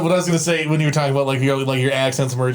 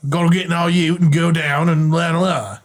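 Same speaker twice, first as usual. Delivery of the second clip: mock Australian gibberish, a bit higher; bad Australian accent; 4 semitones higher than usual. Shown as a demonstration. Showing friends an Australian voice, bad Australian accent. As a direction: rattle off nonsense in rough Aussie. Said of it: "like, a really bad, like, um, Steve Hogan".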